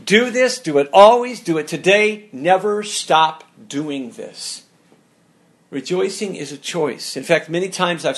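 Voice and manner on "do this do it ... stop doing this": emphatic preaching push. Real, not acted. Preacher urging the congregation.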